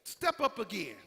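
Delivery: loud, slow menacing challenge; swearing defiance. Acted. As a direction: dare them to ask again. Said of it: "the Bible say he got to swearing".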